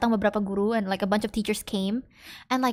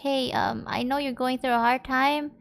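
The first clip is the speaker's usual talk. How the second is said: soft, gentle comfort to a hurting friend; quiet reassurance for a friend after the scare; 4 dB quieter than usual. Retold or imitated. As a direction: speak softly, as if reassuring a hurt friend.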